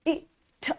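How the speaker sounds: I T sounded softly, one sound at a time. Shown as a demonstration. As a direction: sound out I T gently for the child.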